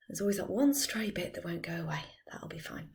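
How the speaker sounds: very soft, half-whispered mumble to yourself; muttered aside. Real, not acted. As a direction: mutter it under your breath, trailing away. Muttered aside while tying hair.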